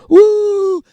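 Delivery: high, loud whoop of a voice; imitated woo. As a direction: cry out a thrill-seeking woo. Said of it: "make people go".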